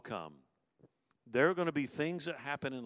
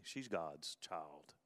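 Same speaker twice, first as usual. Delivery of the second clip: much softer, lower, very slow; hushed realization; 7 semitones lower, 10 dB quieter, much slower than usual. Retold or imitated. Husband realizing in the hospital, very softly and slowly. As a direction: breathe the words out in awe.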